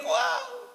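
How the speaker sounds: very high yelled "wow"; demonstrated shout. Shown as a demonstration. Preacher mimics someone shouting on God's path, high yell. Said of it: "dia teriak".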